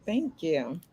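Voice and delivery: talking around a retainer; wearing a retainer. Real, not acted. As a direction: retainer in the mouth. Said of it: "I got my retainer in".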